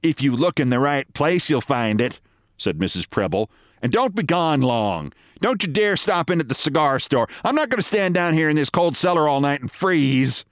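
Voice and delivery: nagging wife. Acted. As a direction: send him off with a scolding. Wife gives orders.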